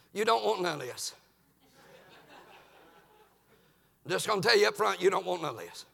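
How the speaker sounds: low, soft word of warning; understated warning. Acted. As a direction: warn him off quietly. Abner first warns his pursuer.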